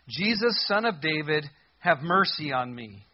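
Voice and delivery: calls out the name loud and pleading; a blind beggar calling out to Jesus; crying out. Retold or imitated. Blind man crying out loudly for mercy.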